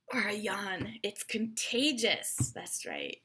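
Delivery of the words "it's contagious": slow emphasis. Shown as a demonstration.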